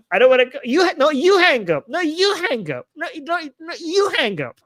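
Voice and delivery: high, playful lovesick pleading; giggly late night call. Pretend. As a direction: tease like a couple who won't hang up. Lovers' "no, you hang up" bit.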